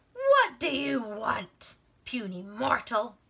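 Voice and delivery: slow, loud, booming giant voice; booming Titan. Acted. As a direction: boom it down from the mountaintop. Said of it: "the Titan's voice boomed".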